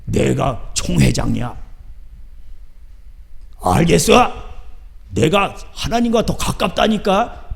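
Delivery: slow, smug swagger; a hint of a pompous church boss; arrogant boasting. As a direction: lord it over them slowly. Arrogant pastor voiced.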